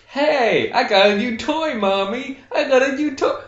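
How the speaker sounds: put-on squeaky kid boasting to mommy; little kid voice. Plays a child showing mom.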